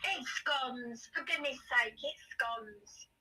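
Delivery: high, far mock posh wife voice; imitating ex-wife. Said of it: "she was a scone woman".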